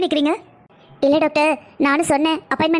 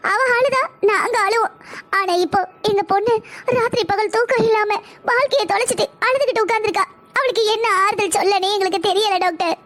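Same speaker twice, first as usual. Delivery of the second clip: anguished mother, pitched up; tearful lament; 3 semitones higher than usual. Acted. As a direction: pour out grief for a beloved daughter. Mother lamenting her daughter's ruined life. (மகளை நினைத்து அழுது புலம்பல்)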